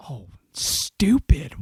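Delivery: slow, whispered self-reproach; self-scolding whisper. Retold or imitated. Speaker berating herself after walking away, whispered mock self-reproach.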